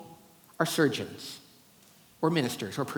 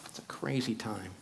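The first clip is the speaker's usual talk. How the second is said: soft unvoiced whisper; 5 semitones lower, 12 dB quieter than usual. Shown as a demonstration. Speaker repeating his musing to the audience, whispered. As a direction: breathe it out as a whisper.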